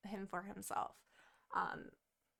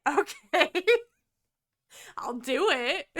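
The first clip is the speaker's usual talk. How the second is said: louder, giggling agreement; laughing surrender; 5 semitones higher, 11 dB louder than usual. Retold or imitated. Karen agreeing to take a bath, giggling. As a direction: give in through laughter.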